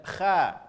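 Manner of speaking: KHA with a plain open a; wrong thin kha. Shown as a demonstration. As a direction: say KHA unrounded, as "khah". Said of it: "bukan kha".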